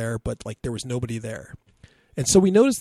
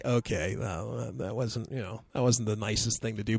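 sheepish; 2 semitones lower, 5 dB quieter than usual. Retold or imitated. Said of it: "I'm just like".

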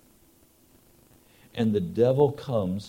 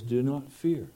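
softer, reassuring voice of God; gentle tender voice; 5 dB quieter than usual. Retold or imitated. God reassuring the congregation, tender and much softer. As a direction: soothe a frightened child. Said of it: "tender, gentle voice that says".

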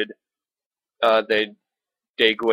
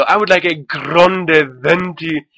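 slow, higher, louder hammed-up Italian-esque accent on grande venti; coffee shop customer showing off in a fake Italian accent; mock Italian accent; 5 semitones higher, 7 dB louder, slower than usual. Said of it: "Latin-esque or Italian-esque accent".

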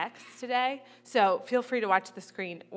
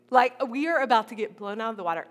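louder, fast, panicky retelling of the king's fear; mock panic; 7 dB louder, faster than usual. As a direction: rush it out like a king caught off guard. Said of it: "Ahaz starts freaking out".

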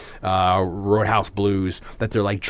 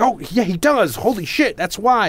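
mock surprise; 9 semitones higher than usual. Retold sudden realization.

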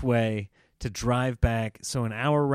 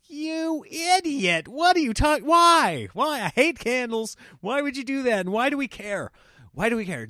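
high, loud, incredulous mock tirade; hammed-up outrage, pitched way up; exasperated rant; 9 semitones higher, 4 dB louder than usual. Husband berating wife over candles, acted exasperation.

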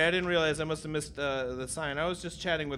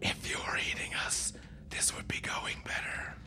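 unearthly voice; 11 dB quieter than usual. Acted. Future selves whisper.

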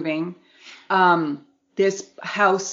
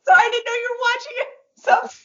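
surprised. Real, not acted. Surprised friend also watched.

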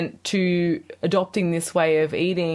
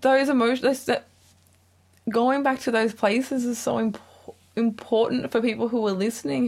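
crying; 3 semitones higher than usual. Real, not acted. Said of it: "And I'm crying".

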